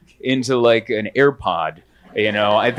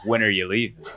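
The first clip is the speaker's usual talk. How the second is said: pointed hint; 4 semitones lower, 4 dB quieter than usual. Retold or imitated. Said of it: "with a tone of".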